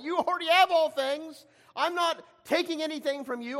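earnest father's reassurance. Acted. Acting the father answering older son.

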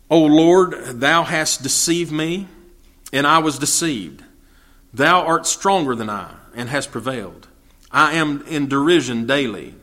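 solemn, measured Bible reading; plain reverent recitation; scripture reading. Acted. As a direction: read it steady and grave.

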